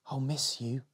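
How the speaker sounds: soft sad whisper. Acted. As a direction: whisper it into the dark. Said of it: "whispered Molly".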